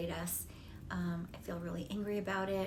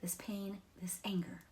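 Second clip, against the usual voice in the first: whispered; 6 dB quieter than usual. Shown as a demonstration. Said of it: "you just say something like".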